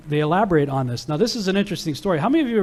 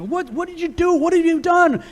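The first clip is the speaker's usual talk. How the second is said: high, raised-pitch outburst, louder at the end; mad father; 12 semitones higher, 4 dB louder than usual. Retold or imitated. Angry father yelling at his son over smashed idols. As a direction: play the idol-maker dad catching his son. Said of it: "He's all mad".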